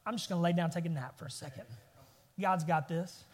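unbothered, ready to doze off; casual calm confidence. Retold or imitated. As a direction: drop low and easy, totally unworried. David resting despite enemies around him.

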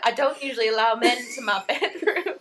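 lightly voiced prim aunt, laughing; a hint of a coy Southern lady; imitating the aunt. Aunt refusing men in her bedroom, lightly mimicked with a laugh. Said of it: "And she's like".

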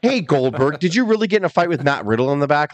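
mock eager fan prying; nosy fan question. Fan prying into a wrestler's backstage fight, nosy. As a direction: buttonhole a star with a pushy question. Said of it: "I would never say that".

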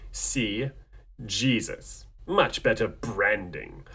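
quiet, slow villain menace. Acted. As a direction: purr it like a scheming villain. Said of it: "like, a villain voice".

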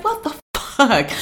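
high-pitched, drawn-out retold outrage; retold snapping. Driver retelling a fender bender, snapping. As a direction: act out snapping at a driver who hit you. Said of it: "like, snapping".

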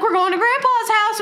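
imitated parent announcement. Voicing parents announcing a visit.

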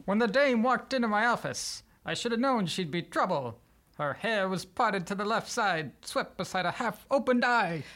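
noir detective. Acted. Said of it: "Dan's prompt of a noir genre piece".

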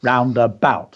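"Roundabout" in three even beats. Shown as a demonstration. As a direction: mark each syllable of "Roundabout" evenly. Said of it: "three beats".

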